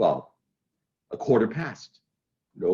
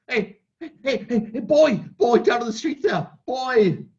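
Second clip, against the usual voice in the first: high, raised calls down to the street; calling out; 4 semitones higher than usual. Acted. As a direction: hail the boy from the window. Calling boy from window.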